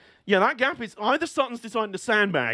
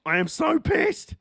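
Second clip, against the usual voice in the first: mock anger; 8 semitones higher, slower than usual.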